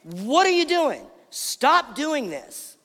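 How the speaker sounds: high-pitched, indignant telling-off; scolding. Acted. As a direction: scold her in mounting outrage, acted out. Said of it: "they have the audacity to scold her".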